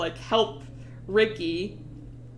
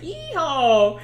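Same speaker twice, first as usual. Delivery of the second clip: louder, higher mock cowboy yell; gleeful whoop; 4 semitones higher, 5 dB louder than usual. Gunman grinning after shooting River, gleeful whoop.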